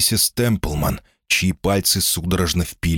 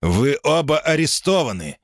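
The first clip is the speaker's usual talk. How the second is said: higher, harsh declaration; stern arrest order; 7 semitones higher than usual. A narrator's reading. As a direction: announce the arrest coldly. Sergeant arrests them.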